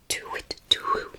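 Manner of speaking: slow hoot in a whisper; whispered owl hoot. Acted. Owl calling as it flies off, whispered hoot. Owl's call in the story.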